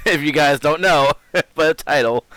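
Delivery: wheezy laughter through words; wheeze-laugh while talking; wheezing. Real, not acted. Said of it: "Sorry I'm wheezing".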